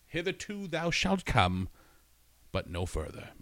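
slow, high grand biblical decree; mock scripture voice; mock proclamation. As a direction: declaim it like scripture.

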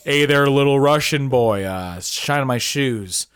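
mock American bad guy, slowing down; drawling American movie villain; Ed Holmes. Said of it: "Ed Holmes is like".

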